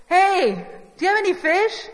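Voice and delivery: hailing fishermen from shore; calling out. Retold or imitated. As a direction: call out to boats far off. Jesus calls across the water.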